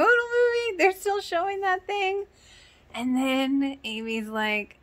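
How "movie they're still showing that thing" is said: mock Alan. Imitating Alan's disbelief.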